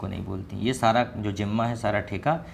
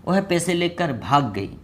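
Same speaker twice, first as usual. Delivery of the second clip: shocked gossip; 7 semitones higher, 3 dB louder, slower than usual. Acted.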